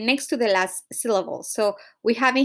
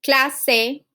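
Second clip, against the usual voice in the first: "Clase" in two separate syllables, CLA stressed; teacher demonstrating "Clase" with first-syllable stress. Shown as a demonstration. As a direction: sound out "Clase" as CLA, then se. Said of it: "So in this case will be cla".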